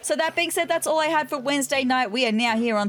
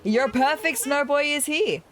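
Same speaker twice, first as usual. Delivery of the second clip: higher, slower, proud little snowman voice; snow boy voice; 4 semitones higher than usual. Acted. Snowman presenting himself to the player, higher and slower. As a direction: present yourself as a perfect snowman.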